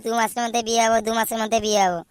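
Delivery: loud, jeering parrot of his friend's promise; a mocking echo of a tired old promise; mocking loud imitation. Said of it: "তুই তো প্রত্যেকবারই বলিস".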